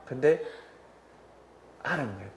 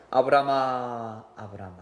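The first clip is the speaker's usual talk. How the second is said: slow, drawn-out heavenly calling of the name; angel's call; 3 dB louder, slower than usual. Acted. Angel calling Abraham slowly from heaven. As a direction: call the name gently from above, stretched out. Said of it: "목소리와 톤이 다르고".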